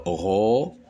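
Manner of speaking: "robe" split into ro, pause, be; syllable by syllable. Shown as a demonstration. Teacher demonstrating two syllables, syllable by syllable. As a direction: separate "robe" into two sounded beats. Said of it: "Le mot robe contient deux syllabes".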